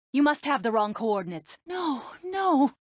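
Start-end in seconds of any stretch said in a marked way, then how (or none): 1.7-2.7 high cry of disbelief; appalled, high-pitched protest; horrified cry. Acted. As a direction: cry out in horror. Witnesses a catastrophe.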